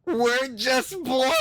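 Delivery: high, drawn-out ditzy squeal; mock bimbo voice. Streamer mocking the women in the clip, high ditzy voice. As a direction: stretch it out high like a mock blonde.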